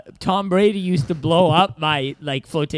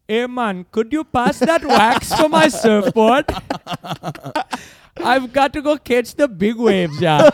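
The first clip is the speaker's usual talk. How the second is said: higher, slow goofy surfer dude; surfer bro voice; 5 semitones higher, slower than usual. Pretend. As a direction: play a dopey beach bum, drawn out. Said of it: "I'll try mine".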